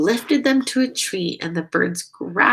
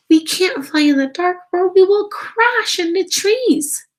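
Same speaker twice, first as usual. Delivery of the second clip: worried; 11 semitones higher, 7 dB louder than usual. Acted. Stella Luna fears the dark.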